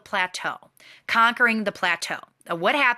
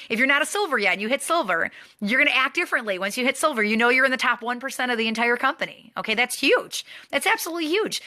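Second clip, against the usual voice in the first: rising higher and more excited, ending on a high huge; building excitement; 4 semitones higher than usual. Real, not acted. Coach hyping the team about reaching silver, excited.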